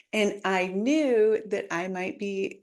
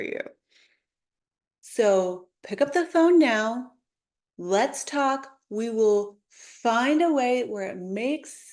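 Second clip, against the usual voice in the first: sample ad read. Shown as a demonstration. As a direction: sell it like a sincere local insurance commercial. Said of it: "Just like the insurance agent".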